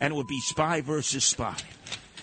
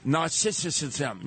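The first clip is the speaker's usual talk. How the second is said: slow careful; much slower than usual. Shown as a demonstration. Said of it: "I can pronounce the word".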